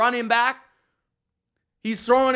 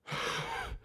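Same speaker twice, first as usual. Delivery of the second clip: mock heavy sigh; 15 dB quieter than usual. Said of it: "he's taking these big, long breaths".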